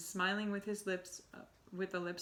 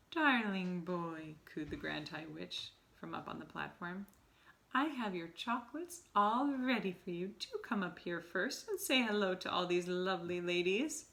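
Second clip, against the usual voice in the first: syrupy witch coo. Acted. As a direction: coo it sweetly like a witch with a trap. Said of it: "soft and gentle and absolutely dripping with syrup".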